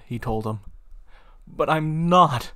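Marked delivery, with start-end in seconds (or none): 1.5-2.5 mild yell. Acted. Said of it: "John screamed".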